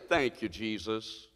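hushed, low thank you, Jesus; soft thanks. Pretend. Preacher showing the church a hushed prayer of thanks. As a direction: breathe it out softly and slowly. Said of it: "you can't help but to say".

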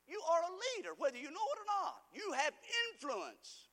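high, loud, with a slowed last line; preaching at full force. Real, not acted. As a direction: drive it home to the crowd. Preacher building to a peak.

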